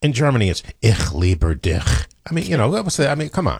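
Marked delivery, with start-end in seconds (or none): 0.8-1.8 slow, low German "ich liebe dich"; harsh German demonstration. Shown as a demonstration. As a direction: demonstrate how unromantic German sounds, slowly. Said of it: "here's the difference in the languages".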